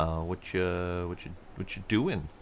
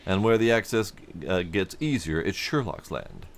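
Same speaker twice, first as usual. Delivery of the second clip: lightly voiced cheerful foreman, louder and bright; a hint of a welcoming foreman; friendly supervisor; 3 dB louder than usual. Player voicing a supervisor greeting a traveler, hearty. NPC dialogue.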